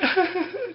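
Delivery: high-pitched fake sob breaking into laughter; mock crying. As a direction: jokingly imitate a woman crying. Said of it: "she's not crying".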